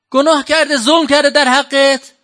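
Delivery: pleading. Acted. Preacher pleading forgiveness.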